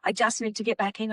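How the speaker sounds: distraught spirit pleading for help. Retold or imitated. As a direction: beg to get back into your body. Hanging victim's spirit pleads.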